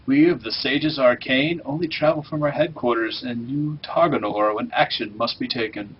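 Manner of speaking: lightly hammed-up NPC quest narration; mock-grand quest text, only mildly put on; cheesy quest-giver voice. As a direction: read it like a corny fantasy questgiver. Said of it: "I can get even cheesier".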